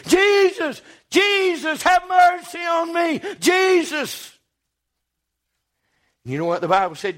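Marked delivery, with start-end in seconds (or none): 0.1-4.3 squalling. Retold or imitated. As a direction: plead at the top of the voice. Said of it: "squalling to begin with".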